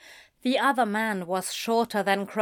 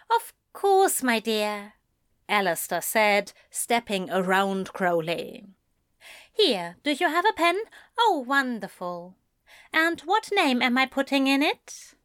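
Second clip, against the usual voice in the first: gracious author; 3 semitones higher than usual. Acted. Alistair voiced, gracious.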